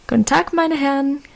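bright, lively hello; a touch of cheer in the welcome; cheerful greeting. Acted. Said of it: "grüßte sie munter".

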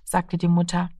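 ordinary delivery

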